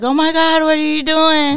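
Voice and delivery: imitating a startled sleeper. Mimicking her friend woken by a jump on the bed, mock startled. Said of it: "and you were like".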